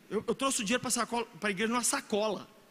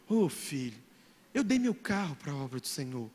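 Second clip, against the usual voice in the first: much lower, softer imitation of the pastor; pastor's gentle reply; 10 semitones lower, 4 dB quieter than usual. Preacher imitating pastor Márcio answering a question about Uber, low and soft. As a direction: answer like a humble old shepherd. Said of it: "Pastor, por que você tá andando".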